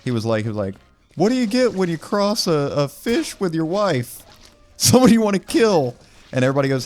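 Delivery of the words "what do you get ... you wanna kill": high, odd jokester voice with a cackle; creepy joker. Retold or imitated. Church singer telling dark joke to the crowd, high cackling voice. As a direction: tell the wife joke in a high unhinged voice.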